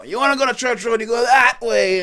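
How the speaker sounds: high, loud imitation of an arguing local; put-on emphatic shout; retold insistent correction. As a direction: push the directions hard, slowing at the end. Retold second man argues directions.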